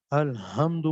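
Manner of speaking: الحمد drawn out with a plain h instead of throat ح; Lahore-style ha. Shown as a demonstration. Tajweed teacher demonstrating a major recitation error, wrong ha. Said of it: "Lahore والی ہا پڑھ دی".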